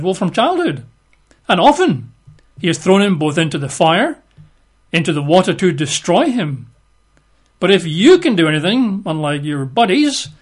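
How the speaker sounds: high, pleading voice breaking upward; pleading father. Acted. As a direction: beg for your son's life.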